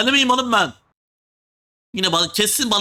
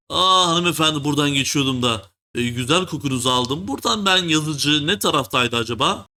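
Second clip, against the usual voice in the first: flirty; 5 semitones lower than usual. Pretend. Smooth-talking the lady at desk.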